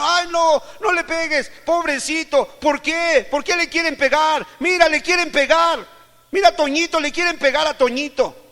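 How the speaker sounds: put-on high, loud pleading on the child's behalf; alarmed relatives protesting. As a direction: cry out in mock-pitying protest. Acts out relatives defending the child. (protesta alarmada y lastimera de pariente)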